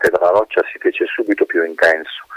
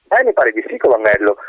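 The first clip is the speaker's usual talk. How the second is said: wind answering. Acted.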